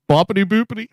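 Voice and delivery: high, silly Boppity boopity; mock chatter. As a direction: chirp Boppity boopity like gibberish. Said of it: "Winning T V in the chat said".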